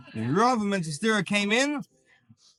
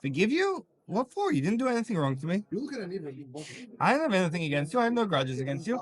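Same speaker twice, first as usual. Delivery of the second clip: puzzled and untroubled; faster than usual. Acted. Humble rabbi answering the sorry chassid, lightly surprised. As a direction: wave the apology away gently.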